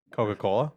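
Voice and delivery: Coca-Cola said with lips kept apart; lips not touching. Shown as a demonstration. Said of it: "can you say Coca-Cola without your lips touching".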